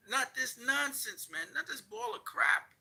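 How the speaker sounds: rising scornful outrage; incredulous rant. Real, not acted. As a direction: stretch each word in disbelief. Angry rant about studio.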